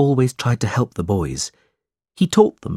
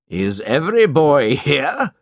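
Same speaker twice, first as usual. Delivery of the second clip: higher, louder schoolmaster's call; shout; 5 semitones higher, 4 dB louder than usual. A narrator's reading. Squeers demands of the frightened boys, a loud shout. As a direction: bellow at the class. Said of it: "he shouted".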